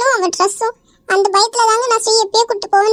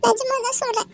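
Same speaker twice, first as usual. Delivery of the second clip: pleading through tears, softer; crying; 5 dB quieter than usual. Acted. Wife begs her husband to believe her, crying. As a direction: sob out a plea to be believed. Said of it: "எதுக்கு இப்ப நீ இப்படி அழுகுற?".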